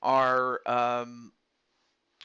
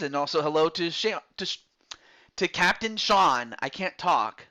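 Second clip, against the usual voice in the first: mouth full of peanut butter. Real, not acted. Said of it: "I have peanut butter in my mouth".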